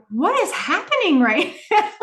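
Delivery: high, laughing what-is-happening; laughing disbelief. Retold or imitated. Cam baffled by the egg puzzle, high and laughing. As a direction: laugh through the words in disbelief. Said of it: "She's like".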